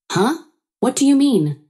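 high-pitched baffled question; perplexed. A narrator's reading. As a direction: react baffled, pitch leaping up. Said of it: "My sister-in-law was perplexed".

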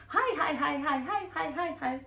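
high, bright repeated hellos; nervous chirpy greeting to the bus; awkward cheery hi. Retold or imitated. Woman greeting staring men on the bus, chirpy high hellos. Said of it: "I'm like".

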